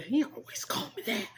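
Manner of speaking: a hint of hee-haw in the words; jackass voice. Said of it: "You have to say it like that, like a jackass".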